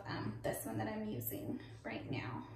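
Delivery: soft whisper. Real, not acted. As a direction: drop to a whisper. Shows product she is using.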